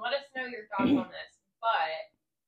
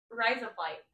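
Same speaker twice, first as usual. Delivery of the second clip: Australian-sounding "razor blade"; Australian accent. Shown as a demonstration. Cohost demonstrating her trick for her friend, Australian accent. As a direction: say it with Australian vowels. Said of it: "I can do an Australian accent very well".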